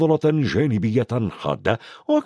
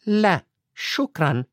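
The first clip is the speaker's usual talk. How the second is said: slow, cool refusal; coolly; 7 semitones higher, slower than usual. Acted. McGonagall coolly refuses Dumbledore's sweet. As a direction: decline without interest. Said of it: "ردت ... بفتور".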